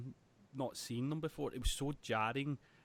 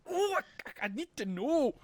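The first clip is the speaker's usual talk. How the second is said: much higher, louder, hammed-up begging; mock desperate plea; 12 semitones higher, 5 dB louder, slower than usual. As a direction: whine it like a cartoon victim. Hero begging the villain.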